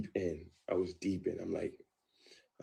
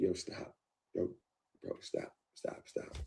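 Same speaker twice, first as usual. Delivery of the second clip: mild pleading stop; 6 dB quieter than usual. Retold or imitated. Urging him to stop, quietly.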